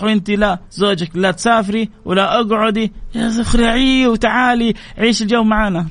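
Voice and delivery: mock tempting friend. Bad friend tempting a wife away.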